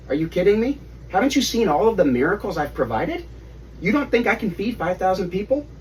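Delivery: half-teasing, amazed rebuke; incredulous Jesus. Acted. Jesus voiced in Bible story.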